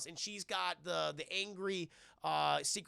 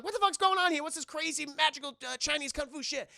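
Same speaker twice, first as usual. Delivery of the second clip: loud, very high-pitched mock bewilderment; high incredulous yell; baffled outcry; 9 semitones higher, 5 dB louder than usual. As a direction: imitate a comic sidekick squawking in disbelief. Retold Tucker baffled by fight.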